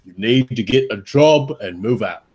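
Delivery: lightly put-on British accent as the uncle. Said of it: "if you guys do the accent".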